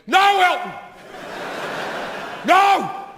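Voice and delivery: high, frantic cry of protest; imitated distraught fan. Young fan pleading at a farewell concert, imitated panic. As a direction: act like a kid losing his mind. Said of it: "lost his mind and went".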